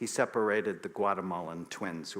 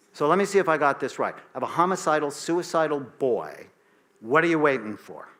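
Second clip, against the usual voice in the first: exasperated; 4 semitones higher, 6 dB louder than usual. Retold or imitated. Angry rant at pediatrician.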